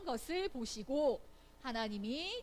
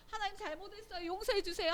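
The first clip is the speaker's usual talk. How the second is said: high, softened plea; acted true repentance; 8 semitones higher, faster than usual. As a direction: ask forgiveness in a high voice, held back at first. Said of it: "하고는 돌아서". (높은 목소리로 조심스레 용서를 비는 연기)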